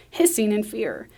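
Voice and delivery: usual speaking voice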